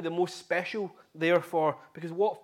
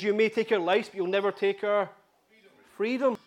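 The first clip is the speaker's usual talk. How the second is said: rousing battle speech, higher and louder; Mel Gibson in Braveheart; 4 semitones higher, 5 dB louder than usual. Retold or imitated. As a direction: imitate a rallying film hero, pausing before the final cry. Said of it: "he gives this a rousing speech".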